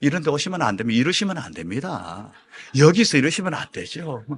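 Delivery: kindly refusal. Retold or imitated. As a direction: imitate a too-nice turning away. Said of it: "막 친절하게 다 해가지고". (친절하고 순하게 타이르듯)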